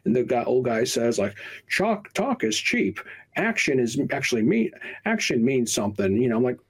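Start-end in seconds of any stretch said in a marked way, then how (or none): 1.7-6.1 mock gruff old guy.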